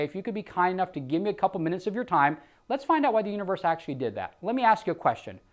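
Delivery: heartfelt sales pitch; emotional appeal. Shown as a demonstration. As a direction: win them over emotionally. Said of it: "attack the emotional side".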